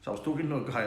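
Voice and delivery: usual speaking voice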